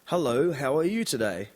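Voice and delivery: careful, lightly imitated Disney English. Japanese newcomer trying Disney English, careful imitated accent. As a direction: put on neat beginner's Disney-style English. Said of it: "you think you know Disney English".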